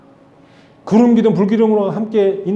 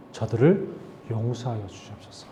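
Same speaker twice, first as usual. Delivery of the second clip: much softer, lower prayerful plea; humble plea; 7 semitones lower, 11 dB quieter than usual. Acted. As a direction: beg for mercy under your breath. Moses humbly pleading for the people.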